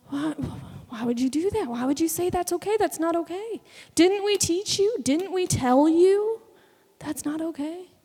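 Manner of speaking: loud, rising, exasperated scolding; a parent's loud, rising reproach; exasperated scolding parents. Retold or imitated. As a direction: scold them like disappointed parents. Parents scolding grown children.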